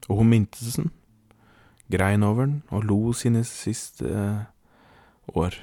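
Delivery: measured, deliberate storytelling; story narration. A narrator's reading. Podcast host introduces the general to listeners, measured storytelling. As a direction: tell it as a solemn tall tale. Reads out a comic tall tale.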